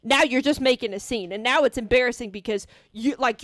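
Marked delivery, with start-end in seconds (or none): 0.0-1.3 louder, indignant lecture; exasperated telling-off. Retold or imitated. Speaker telling the rude barista off, louder and indignant. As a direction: scold her firmly, point by point. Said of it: "And I'm like".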